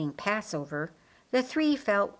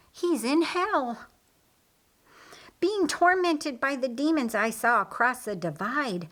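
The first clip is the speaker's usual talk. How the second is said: higher, intense, lightly voiced Lazarus; earnest Lazarus; 4 semitones higher than usual. Lazarus tells Mary of hell, higher and intense. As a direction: tell her the grim truth, insistent.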